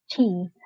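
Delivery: "Cheese." ending in a buzzing Z sound, not an S. Shown as a demonstration. Teacher showing students the Z at the end of "Cheese.". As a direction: land the final sound of "Cheese." as a clear voiced Z. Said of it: "di pronunciation-nya adalah cheese".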